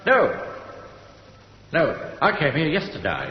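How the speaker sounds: a light Australian twang on the punchline; hint of an Australian accent. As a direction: deliver the soldier's reply in a lightly put-on Australian accent. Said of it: "Australian accent".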